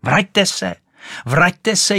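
high, urgent calling back; high, loud storybook yell; shrieking. A narrator's reading. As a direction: shriek after someone leaving. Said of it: "ječela Rachejtle".

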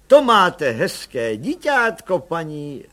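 kindly. A narrator's reading. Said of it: "říkali přívětivě".

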